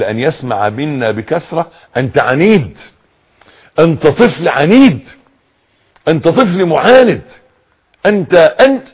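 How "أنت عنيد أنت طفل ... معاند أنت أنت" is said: mildly mocking a disgusted parent scolding. Parent telling the child he's stubborn, mild mock disgust. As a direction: lightly act out a fed-up parent labeling the kid. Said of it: "بقرف كده".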